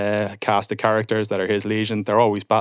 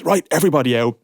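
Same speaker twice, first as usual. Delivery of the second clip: higher, louder barked order from an angry dad; stern dad order; 5 semitones higher, 4 dB louder than usual. Retold or imitated. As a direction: clear the room like a fed-up father. Dad clears the room.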